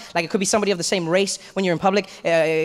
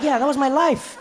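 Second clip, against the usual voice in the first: laughing disbelief; 8 semitones higher than usual. Retold or imitated. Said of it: "I'm like".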